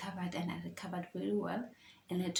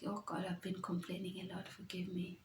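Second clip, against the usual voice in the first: whispered prayer; 7 dB quieter than usual. Retold or imitated. Quoted prayer to God.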